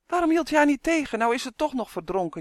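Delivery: high, loud wail sinking as it goes; storybook elf's dismayed wail; wailing lament. Acted. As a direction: lament it plaintively, starting high. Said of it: "jammerde de elf".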